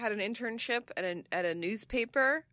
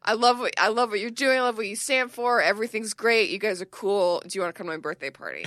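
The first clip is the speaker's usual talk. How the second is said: gushing; 4 dB louder than usual. Retold or imitated. Gushing at the company.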